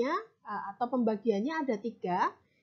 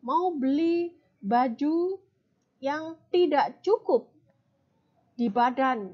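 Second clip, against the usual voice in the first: lightly put-on Balinese accent, drawn out; 2 semitones higher, slower than usual. Shown as a demonstration. Teacher imitating Balinese speech for students: slow Balinese accent. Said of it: "karena T-nya ada H-nya".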